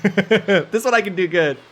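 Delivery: put-on slow Cape Breton Canadian accent. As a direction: draw it out in a Maritime accent. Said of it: "That was so good".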